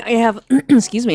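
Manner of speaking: throat catching on food; choking on pork. Real, not acted. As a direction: clear the throat mid-sentence, choking. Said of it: "I'm choking on some pork meat here".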